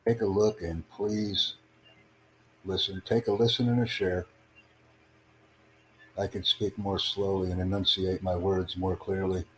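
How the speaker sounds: slowed down for a non-native listener; slow, clear speech. Real, not acted. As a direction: enunciate each word carefully. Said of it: "I'll speak slowly".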